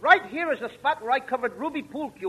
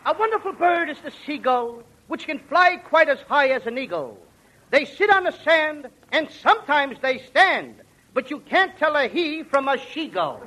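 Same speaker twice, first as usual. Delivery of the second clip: slow, sing-song recital; reciting a silly poem to a friend; 2 semitones higher, slower than usual. Acted. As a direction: recite like a proud schoolboy. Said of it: "I'll recite it".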